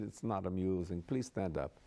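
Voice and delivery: lightly imitated German-accented queen; understated German-accented command. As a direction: mimic her German accent. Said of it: "she had a German accent".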